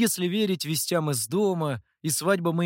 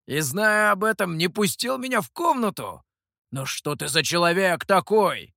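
higher, louder indignant reproach; indignant outburst; 4 semitones higher, 4 dB louder than usual. A narrator's reading. Mikhou indignantly reproaches Guei for not letting him in. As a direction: accuse him in disbelief.

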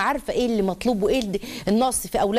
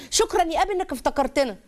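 put-on higher sweet voice of a small girl; little girl's voice; 6 semitones higher than usual. Preacher voicing a little girl thanking her father, high and sweet. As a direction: sound like a grateful four-year-old.

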